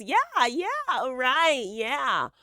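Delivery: lightly mock someone going along with everything; airy fake agreement; mock agreeable. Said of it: "and everything was".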